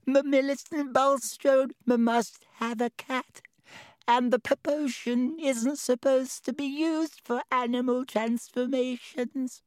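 high wailing with stammers; howling, upset. Acted. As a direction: wail it, stumbling on words. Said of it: "she howled".

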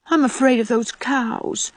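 put-on slow, timid little girl's voice; afraid protest. A narrator's reading. Timid sister balking at crossing the cow field, slow timid protest. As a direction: drag it out, looking for an escape. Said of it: "protested poor Dora".

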